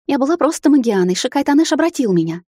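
rushed patter. A narrator's reading. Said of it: "скороговоркой проговорила девица".

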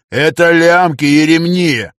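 громко и медленно, с раздражением; отрезать, чеканя слова; сердитый выкрик. A narrator's reading. Раздражённый фея кричит в ответ. (возмущённо)

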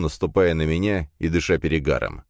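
plain reading voice

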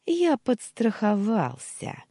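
high, loud, drawn-out hint; vile gloating. A narrator's reading. Uncle hints at his insurance, gloating. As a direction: savour it smugly, slowly. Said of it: "снова мерзко рассмеявшись".

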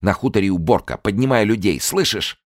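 high, loud urgent commands; urgent push. Acted. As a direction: drive him to act now. Urgent orders.

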